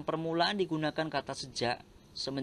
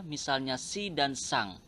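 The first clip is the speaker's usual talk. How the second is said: "si dan sang" spelled out slowly, each word set apart; teacherly slow stress on "si" and "sang"; slow emphasis; 3 semitones lower, slower than usual. Shown as a demonstration. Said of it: "kata sandang yang masih dipakai".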